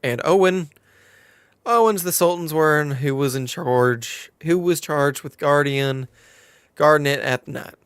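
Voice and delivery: put-on storytelling in a light southern accent. Quest-giver explains the stolen crown to adventurer, southern accent. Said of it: "Now can I escape the southern accent".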